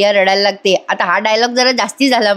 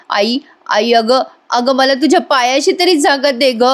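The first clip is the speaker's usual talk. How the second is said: grovel at her feet; theatrical begging whisper; 3 semitones higher than usual. Retold or imitated. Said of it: "Priya नाटकी नाटकी त्या कल्पना त्यांच्या पाया पडते". (पाया पडताना कुजबुजत नाटकी विनवणी)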